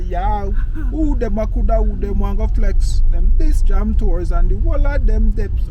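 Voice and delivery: mock-indignant Jamaican patois rant. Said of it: "you not even sound Jamaican".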